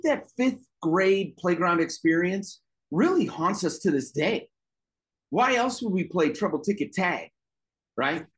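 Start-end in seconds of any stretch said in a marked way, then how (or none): none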